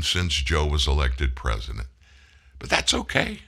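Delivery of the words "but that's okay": high mocking "it's fine"; sarcastic. Real, not acted. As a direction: squeak it out in mock approval. Sarcastic mock acceptance.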